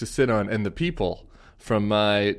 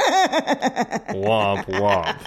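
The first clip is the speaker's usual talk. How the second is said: laughing womp womp. Pretend. Mock sad trombone after gaffe.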